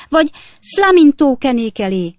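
mother crying out in shame; anguished cry. Acted. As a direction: wail it out, topping the daughter. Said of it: "kiáltotta Napkinsné".

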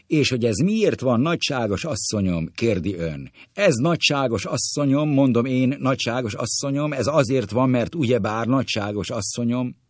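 high, loud, insistent lecturing; high-pitched chattering explainer; pompous doctor. Acted. Krász doktor's line, acted in play reading.

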